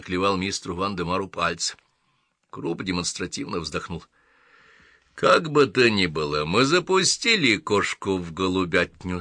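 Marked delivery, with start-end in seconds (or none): 5.1-9.2 with relish. Acted. Croup remarks on the cat among pigeons, with relish. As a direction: relish the phrase as you say it. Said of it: "с наслаждением проговорил он".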